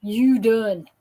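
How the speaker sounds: cashier's warm drawl. Retold or imitated. Cashier gently telling the worn-out speaker, in an imitated Southern Black accent. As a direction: kindly tell her she's finished. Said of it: "and she says".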